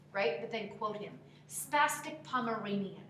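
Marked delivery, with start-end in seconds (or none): 1.5-3.0 slowly drawn-out quoted insult; quoting his insult. Retold or imitated. Coach quoting an old insult to an actor, slow imitation. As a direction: quote him, stretching the words. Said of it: "like how he would have said it to you".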